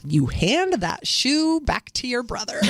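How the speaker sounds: slow, deliberate motherly order; firm retold command. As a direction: lay down the rule word by word. Mother stops daughter stepping in.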